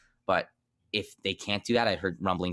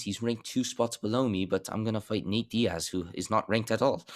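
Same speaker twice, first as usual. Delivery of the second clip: a lightly put-on British accent, voicing Leon; hint of a British accent, mocking Leon's logic; 3 semitones higher than usual. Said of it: "It's my Leon accent".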